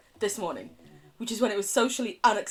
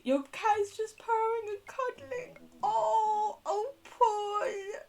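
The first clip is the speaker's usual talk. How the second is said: high, wailing whimper of dread turned to awe; overwhelmed by the cat's cuteness; mock whimper; 14 semitones higher, slower than usual. Melting over cat cuddles.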